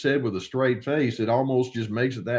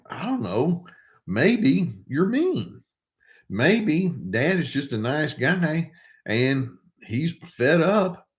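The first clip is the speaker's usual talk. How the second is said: exasperated retort; 5 semitones higher, slower than usual. Real, not acted. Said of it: "mocking retort to the mother".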